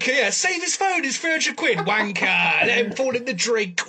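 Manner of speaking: half-hearted mock yobbo jeer; jeering Brit. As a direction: scoff at the poor man in the water. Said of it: "the British mind goes".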